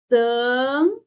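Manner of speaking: TAN held long on the nasal vowel; drawn-out syllable. Shown as a demonstration. Teacher isolating a first syllable, long and drawn out. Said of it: "Nós temos isso aqui".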